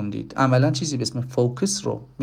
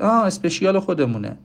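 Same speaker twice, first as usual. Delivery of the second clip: sudden recognition; 6 semitones higher than usual. Acted.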